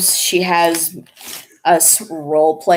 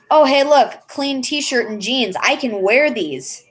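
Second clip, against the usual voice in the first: higher, breezy carefree voice; mock carefree self; 6 semitones higher than usual. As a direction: play your own careless morning self. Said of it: "I'm just that kind of person who's like".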